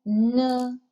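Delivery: N held as a lone syllable; initial sound N. Shown as a demonstration. Teacher isolates the initial of 你 for learners, sounded out. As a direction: sound out N by itself, drawn out. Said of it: "the initial for 你".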